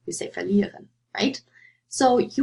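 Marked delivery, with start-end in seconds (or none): 0.3-0.9 "verlieren" said with stress on LIE; light VER, weight on LIE in "verlieren"; stress on the stem. Shown as a demonstration. Teacher giving the answer, LIE stressed in "verlieren". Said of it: "stress on the prefix or the stem".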